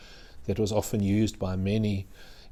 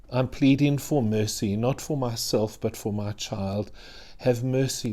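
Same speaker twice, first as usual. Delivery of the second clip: pleading mother. Acted. Preacher voices the pleading mother.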